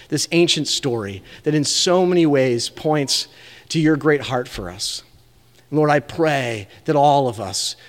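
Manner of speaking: preacher praying over his church; closing prayer. Acted. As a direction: pray over the congregation to close the service.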